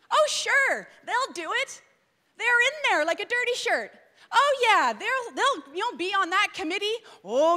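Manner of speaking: eager yes-sayer. Retold or imitated.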